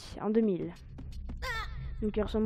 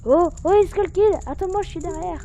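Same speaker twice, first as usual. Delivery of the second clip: excited fairy voice; 5 semitones higher, 4 dB louder than usual. Acted. Reads the fairy's dialogue.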